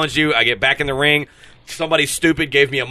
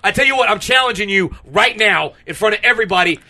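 higher, pumped-up wrestler challenge; 3 semitones higher than usual. Acted. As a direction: call him out into the ring.

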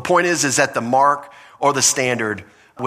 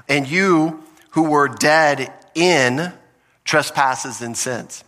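scripture reading; slower than usual. Acted. Reading the verse aloud.

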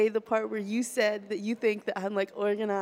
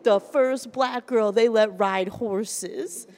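slow, drawn-out mock observation; imitated deadpan roast; 5 dB louder, much slower than usual. Comic retelling a friend's insult, slow imitated roast. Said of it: "he's like".

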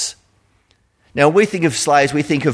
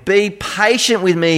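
higher, slow plea for mercy; begging; 4 semitones higher, slower than usual. Acted. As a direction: beg the king to wait. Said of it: "he begged".

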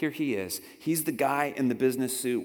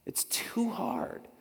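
whisper; 9 semitones higher, 6 dB quieter, much slower than usual. Shown as a demonstration.

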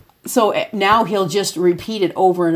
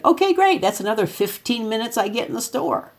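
mock cheerful; 5 semitones higher than usual. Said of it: "she said".

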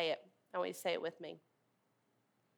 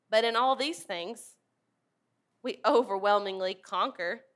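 forceful preached reading, louder on key lines; preaching scripture; 2 semitones higher, 4 dB louder than usual. Acted. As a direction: proclaim each "nor" like a rising charge.

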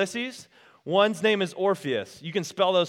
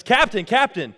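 raised, higher crewman's call; urgent call; 4 semitones higher, 6 dB louder than usual. Retold or imitated. Crewman urgently calls his captain.

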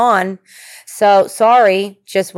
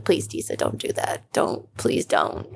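whispered plea; 14 semitones lower, 9 dB quieter than usual. Retold or imitated. Listeners begging her not to.

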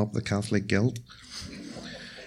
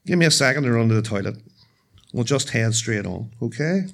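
reassuring like dad. Retold or imitated. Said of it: "with the calm, reassuring tone of my dad".

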